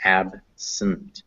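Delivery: Absent in two separated parts; syllable by syllable. Shown as a demonstration. Teacher joining the syllables for students, "Absent" spaced apart. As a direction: say "Absent" as AB, pause, SUNT. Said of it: "let's go with syllable by syllable".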